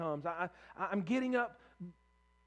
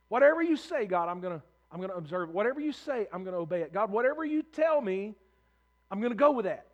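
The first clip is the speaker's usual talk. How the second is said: punchy, raised declarations to God; emphatic acted pledge; acted fervent vow; 6 dB louder than usual. Voicing a vow of obedience.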